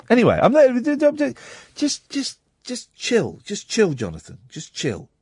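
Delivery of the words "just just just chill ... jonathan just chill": soft, hushed plea to relax; quietly placating; calming down. Real, not acted. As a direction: drop the volume and settle the caller. Host tells caller to calm down.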